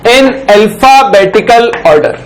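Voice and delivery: slow, word-by-word dictation; note dictation. Shown as a demonstration. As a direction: read each word out slowly for students to write down. Teacher dictates slowly. (धीरे-धीरे notes लिखवाना)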